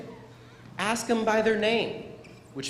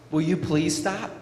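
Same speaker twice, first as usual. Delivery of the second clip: nicely. Shown as a demonstration.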